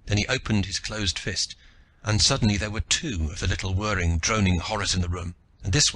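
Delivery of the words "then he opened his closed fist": usual speaking voice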